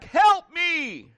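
high, loud shouted call; acted yell, falling at the end; echoing yell. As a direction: shout it across a mountain. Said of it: "a voice comes back".

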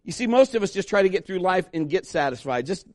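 usual speaking voice

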